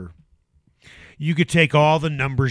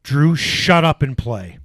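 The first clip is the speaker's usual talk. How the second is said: stern put-down; 4 dB louder than usual. Retold or imitated. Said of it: "that's what I would say to him".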